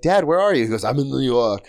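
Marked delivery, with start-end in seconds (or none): 0.0-0.6 higher, louder retold daughter. Daughter asks her father on a call, higher voice. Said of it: "And she's like". 0.8-1.7 put-on understated Austrian-accented father; Arnold Schwarzenegger. Father answers daughter on a call, subtle Austrian impression. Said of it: "that's a good impression 'cause you're not going overboard".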